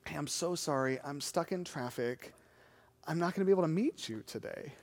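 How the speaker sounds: soft, low retold apology; hushed, regretful voice on the phone; apologetic. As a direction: imitate a sheepish caller letting someone down gently. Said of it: "very apologetically, he said".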